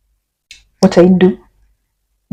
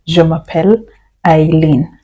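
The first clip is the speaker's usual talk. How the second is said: slow split model. Shown as a demonstration. Teacher to students, slow split demo. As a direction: pause before the name, each part set apart. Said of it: "I can say".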